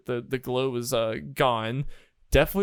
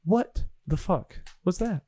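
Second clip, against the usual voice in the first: Erky Timbers; 5 semitones higher than usual. Acted. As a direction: spell it out word by word, deliberately. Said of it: "Erky says".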